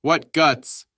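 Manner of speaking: high, loud admiring exclamation; thrilled cry at the pilots' daring; admiring shout. A narrator's reading. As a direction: shout it in excited awe. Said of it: "shouted the Stabs".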